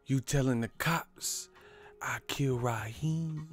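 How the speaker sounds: fading from plain to a slow whisper; menacing hushed quote. Retold or imitated. Villain threatening the rapper, fading to a whisper. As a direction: let it sink into a threatening whisper. Quoting a movie scene.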